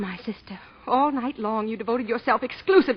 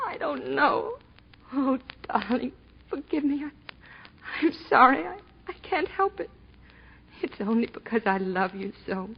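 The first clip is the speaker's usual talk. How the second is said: tearful apology; 5 dB quieter than usual. Acted. Breaks down after the quarrel.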